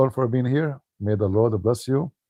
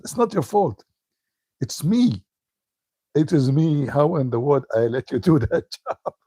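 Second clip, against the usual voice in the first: imitating upset mom; 5 semitones higher than usual. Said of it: "She was so, so upset".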